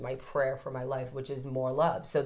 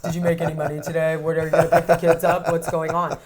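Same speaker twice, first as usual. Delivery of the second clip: anxious rant; 5 dB louder, faster than usual. Retold or imitated. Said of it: "I'm just like".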